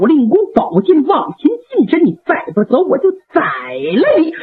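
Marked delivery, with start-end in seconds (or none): 2.1-4.3 慢下来, 一字一顿地哭着喊; 父亲拔剑逼儿子离开, 悲愤地怒喝; 带哭的怒喝. Acted. 老令公持剑逼子. (悲愤怒喝)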